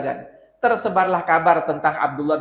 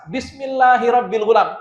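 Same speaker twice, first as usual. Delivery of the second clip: said aloud; 4 semitones higher than usual. Acted. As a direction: call it out so the crowd hears. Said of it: "diucapkan dengan suara keras".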